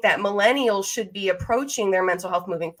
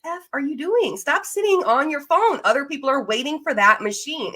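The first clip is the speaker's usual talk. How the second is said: higher, exasperated mock scolding at gym phone users; exasperated rant; 5 semitones higher than usual. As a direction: snap at them like they're hogging the machine. Mock rant at phone-scrolling gymgoers.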